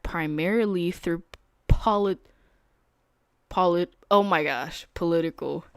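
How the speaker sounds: halting on a long word, real; stumbling reading. Real, not acted. Trader struggling to read politics aloud, stumbling. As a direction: trip over the word and restart. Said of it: "I sound like Kai Cenat reading".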